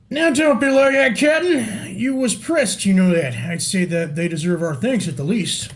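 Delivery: a lightly played sailor soothing his captain; light pirate voice calming the boss; pirate crewman. Voices pirate crew member.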